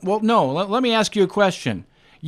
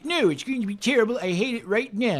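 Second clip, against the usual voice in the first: mock doom; 6 semitones higher than usual. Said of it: "I can't be".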